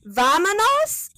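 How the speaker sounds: high, slow cartoon-host voice; Dora voice. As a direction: drag it out like a kids' show host. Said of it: "when Dora would wait and be like".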